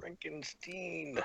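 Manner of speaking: slow, soft New York-style Frankenstein; New York accent. Retold or imitated. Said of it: "my New York accent".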